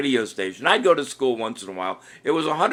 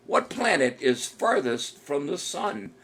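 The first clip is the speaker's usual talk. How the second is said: drawn out, slowed-down question; slower repeat; slower than usual. Shown as a demonstration. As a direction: lay the question out slowly for the players.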